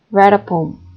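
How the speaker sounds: WRITE stressed, a poem blended after it; one breath, hit write. Shown as a demonstration. Teacher repeating the example, stress on write. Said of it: "with a single breath".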